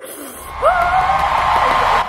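very high, loud, long squeal; dramatic squeal. Pretend. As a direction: squeal as if overcome with delight. Overcome by the bag reveal.

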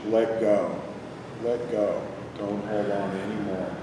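calm, unhurried meditation guide; guided meditation. Real, not acted. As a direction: lead them inward with long pauses. Leads a body-scan meditation.

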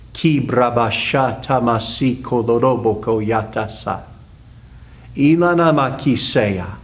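fluent run of unknown syllables; speaking in tongues. Real, not acted. Pastor speaking out as the Spirit gives utterance, in tongues. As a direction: pray out in tongues, syllables flowing. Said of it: "speaking out as the Holy Spirit gives me the utterance".

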